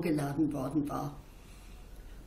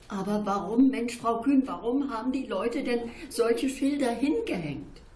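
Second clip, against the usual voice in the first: louder, higher, impatient pleading; girl urging Frau Kühn, louder and impatient; insistent child; 5 semitones higher, 3 dB louder than usual. Acted. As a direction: press her for an answer, exasperated. Child presses the question impatiently.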